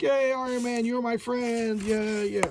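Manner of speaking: high, singsong cartoon critter cheer; cheering squirrels. Squirrels cheer Iron Man as their friend, high mock cheering. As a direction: chant it up high like tiny adoring animals.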